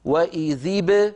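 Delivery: وإذ ب with the ba echoed and no vowel after it; bouncing ba. Shown as a demonstration. Teacher demonstrating the correct echoing ba to students. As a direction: slowly bounce the ba, never bi. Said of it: "ب وليس بي".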